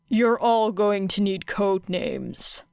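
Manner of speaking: slow, flat statement with a falling end on names; Aizawa's flat announcement. Acted. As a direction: state it dryly, no question.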